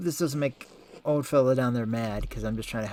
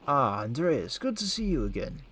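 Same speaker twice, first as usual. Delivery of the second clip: put-on slipping into a Russian accent on the greeting; light unplanned Russian accent. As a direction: greet Andreas in a hint of a Russian accent, rising on the second line. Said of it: "Why'd I go Russian all of a sudden?".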